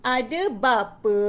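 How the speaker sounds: slow, drawn-out words with swooping intonation; clear expressive storytelling. Shown as a demonstration. Teacher telling children about the vowel family, expressive storytelling. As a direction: pause after each phrase, lifting the endings. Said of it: "kuat, jelas dan penuh intonasi".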